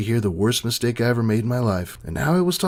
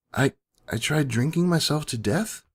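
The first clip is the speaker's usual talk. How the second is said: whispered in fear; 4 semitones higher than usual. Acted. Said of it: "I whispered in fear".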